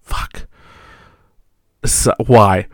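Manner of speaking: high, loud exasperated rant; exasperated wife. Retold or imitated. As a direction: rant in frustration. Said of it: "she's like".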